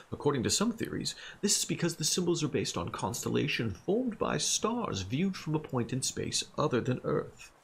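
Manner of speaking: put-on Middle English accent. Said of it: "Middle English accent".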